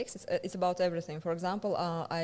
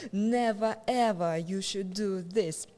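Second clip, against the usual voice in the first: strict teacher; slower than usual. Retold or imitated. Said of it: "at university they said".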